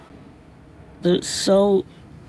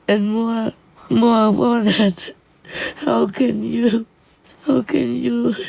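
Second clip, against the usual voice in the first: tearful pleading; 5 semitones higher than usual. Real, not acted. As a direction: plead through tears, voice held high. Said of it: "I'm just too emotional".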